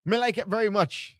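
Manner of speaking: high-pitched, botched attempt at an accent; Finn Balor. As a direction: put on a high, muddled foreign accent. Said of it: "I don't know what accent is that".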